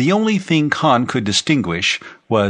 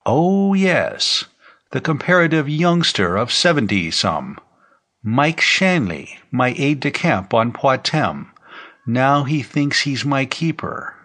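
lightly voiced old man, slightly raised pitch; a hint of an elderly general reminiscing; frail old man; 4 semitones higher than usual. Old general recalling his aide-de-camp, lightly voiced old man.

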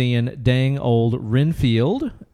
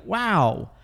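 high, stunned disbelief at price; shocked; 10 semitones higher, slower than usual. Retold or imitated. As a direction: voice jumps way up in shock. Retold shock at bar price.

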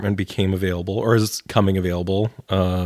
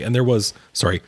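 words caught on a swallowed drink; choking on a drink; 2 semitones higher than usual. Real, not acted. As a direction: speak through a choke on a drink. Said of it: "I'm choking on the energy drink".

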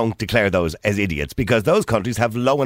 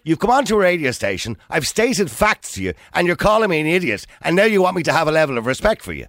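heated pundit debate; 6 semitones higher than usual. Real, not acted. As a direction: push back hard, voice up. Radio host arguing with caller.

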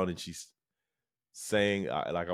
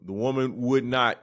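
ordinary delivery

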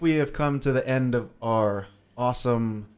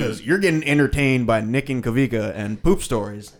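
Southern accent. Real, not acted. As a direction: let a hint of a Southern accent creep in. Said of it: "I don't know why I'm Southern now".

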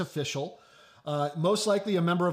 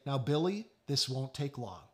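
lower, softer soothing aside; mild, retold fatherly calm; calm patient dad; 4 semitones lower, 5 dB quieter than usual. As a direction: gently reassure a fussing child, keeping it low. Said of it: "very calmly saying over and over".

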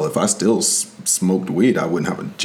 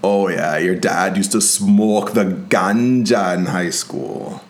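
put-on Jamaican accent; slower than usual. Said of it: "Stop with the Jamaican accent".

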